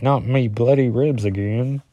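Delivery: put-on weak British accent; a bad British accent. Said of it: "my British accent's as bad as my".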